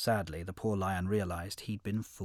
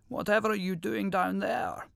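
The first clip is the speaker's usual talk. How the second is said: high, puzzled lion voice; surprised lion; 9 semitones higher than usual. A narrator's reading. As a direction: call down into the well, surprised. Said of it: "asked the lion in surprise".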